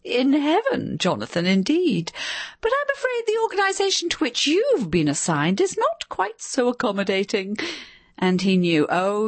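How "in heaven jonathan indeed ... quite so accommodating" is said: high, gloating shrill voice; triumphant shrill wife. A narrator's reading. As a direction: savour the triumph. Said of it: "triumphant pleasure".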